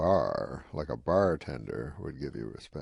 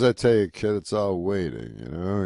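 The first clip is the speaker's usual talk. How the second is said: Rodney, louder; 5 dB louder than usual. Retold or imitated. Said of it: "he goes".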